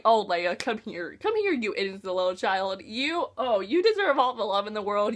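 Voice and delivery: hug her with your voice, gently; tender comfort. Retold or imitated. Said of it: "I was like".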